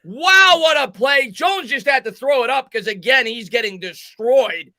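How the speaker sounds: excited. Real, not acted. Still thrilled after the sideline catch, excited. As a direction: ride the excitement down slowly. Reacting to the big play.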